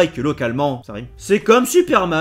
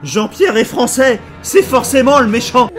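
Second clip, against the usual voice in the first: mock dramatic revelation; 4 semitones higher, 6 dB louder than usual. Real, not acted. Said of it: "ironic mock revelation".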